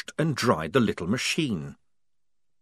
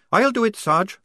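higher, louder, doubtful; high questioning voice; 12 semitones higher, 5 dB louder than usual. A narrator's reading. Tonka questioning Polly, high and doubtful. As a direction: ask it doubtfully.

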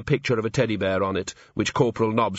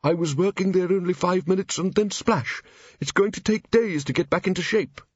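tiny, much higher aggrieved voice; shrill little voice; 8 semitones higher than usual. Acted. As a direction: fuss in a tiny high voice. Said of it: "in a shrill little voice".

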